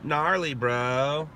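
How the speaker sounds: slow, laid-back Southern California bro; surfer dude talk. Shown as a demonstration. Showing chat how he can talk, bro style. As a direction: drawl it like a beach bro. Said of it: "I could totally talk, like".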